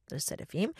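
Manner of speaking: softly slipped-in aside; under the breath. Real, not acted. Reader marking a song title inside the story, under her breath. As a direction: drop the title in quietly. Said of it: "I read them under my breath".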